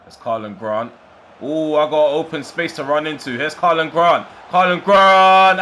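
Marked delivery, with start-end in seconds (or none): 1.4-3.3 louder and higher, eager; building as the space opens up; excited. Real, not acted. Striker breaks clear, commentator excited. 3.3-4.3 higher and louder calling the run; rising commentator call of the name; excited call. Real, not acted. Breakaway building to goal. 4.5-5.6 much higher and louder, slow drawn-out yell of the name; goal shout. Real, not acted. Goal scored, shouting scorer's name.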